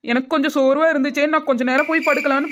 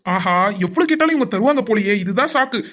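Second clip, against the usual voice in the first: scheming aside; 3 semitones lower than usual. Acted. Doctor's scheming aside about money.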